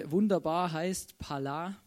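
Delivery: Pala slowly spelled out; Hebrew word. Shown as a demonstration. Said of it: "sind zwei hebräische Wörter". (hebräisches Wort Pala langsam ausgesprochen)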